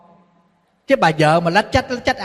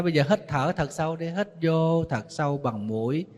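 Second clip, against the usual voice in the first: calm breathing guidance; 4 semitones lower, 5 dB quieter than usual. Retold or imitated. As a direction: talk her down gently, like a breathing coach. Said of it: "Thầy nói".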